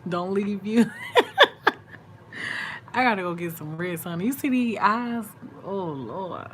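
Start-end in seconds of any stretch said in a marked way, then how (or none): 0.9-2.9 a real laugh that squeals up very high; squealing laugh. Real, not acted. Laughing after joking to viewers not to leave, squealing laugh. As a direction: let the laugh shoot way up.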